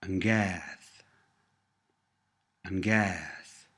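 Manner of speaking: gath starting with a G, not a K; soft G in gath. Shown as a demonstration. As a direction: model the softened G in gath. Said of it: "softens to a G sound".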